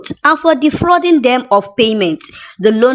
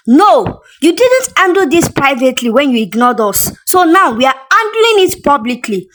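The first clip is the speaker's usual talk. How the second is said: sharp retort; 4 semitones higher than usual. Acted. Brand owner refusing Tasha's plea, snapping back angrily. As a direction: snap back at her, furious. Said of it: "the woman shot back".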